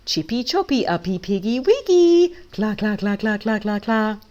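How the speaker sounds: drawn-out chicken jeer with clucks; evil chicken taunt. A narrator's reading. Evil chickens threatening Pig with chopping, mocking. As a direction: stretch the rhyme, then cluck mockingly.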